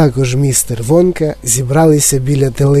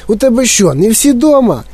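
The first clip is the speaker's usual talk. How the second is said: higher, disgusted eccentric chocolatier; eccentric Wonka; 8 semitones higher than usual. Acted. Wonka scolding Mike about oatmeal, disgusted. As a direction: lecture the boy with distaste.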